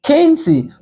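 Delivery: slow, carefully spaced English model; slow teacher's model sentence; slow clear demo. Shown as a demonstration. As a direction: say it slowly for learners. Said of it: "Par egzanp".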